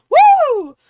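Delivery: high, loud whoop of mock enthusiasm; mock drunken-style yelling. Bruce celebrating his auction painting, high mock yelling. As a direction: yell it out like an overexcited buyer. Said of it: "just starts, like, yelling".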